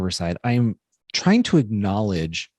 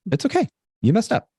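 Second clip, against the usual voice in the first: gentle, higher-pitched reassurance to oneself; self-soothing; 9 semitones higher, faster than usual. Retold or imitated. Speaker consoling themself after a mistake, tenderly higher-pitched. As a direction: comfort yourself in a lifted, soothing voice. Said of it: "like, hug myself and be like".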